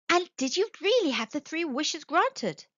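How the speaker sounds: put-on high, inquisitive old lady's voice. A narrator's reading. Missus White questioning the soldier, in an old lady's voice. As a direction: raise the pitch as a curious wife.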